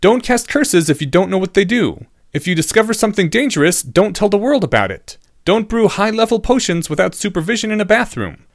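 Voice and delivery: high-pitched pupil urging a point; grave, earnest student. A narrator's reading.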